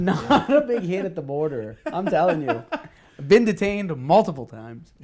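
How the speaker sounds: loud, slow, through laughter; amused boast. Real, not acted. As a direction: drive the joke home while laughing. Joking remark amid laughter.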